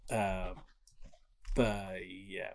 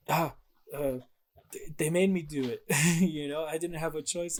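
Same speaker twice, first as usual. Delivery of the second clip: higher, whiny excuse as a fake victim; mock-innocent Odin; 6 semitones higher, 4 dB louder than usual. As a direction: play the innocent, shifting blame. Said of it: "Odin immediately goes".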